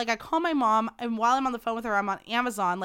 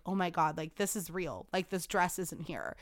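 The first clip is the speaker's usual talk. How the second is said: dawning dread; 4 semitones lower, 8 dB quieter than usual. Retold or imitated. Realizing the dress is lost.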